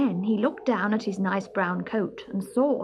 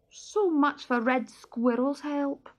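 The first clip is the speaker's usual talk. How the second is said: gloomy; 6 semitones higher than usual. Acted. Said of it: "said Barney gloomily".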